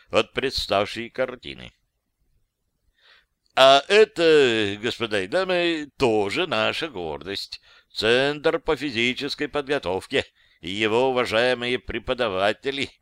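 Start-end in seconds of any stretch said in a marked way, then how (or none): 3.6-12.9 mildly stiff tour-guide introduction; tour guide patter. Acted. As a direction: recite the memorized guide lines. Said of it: "заученные слова экскурсовода".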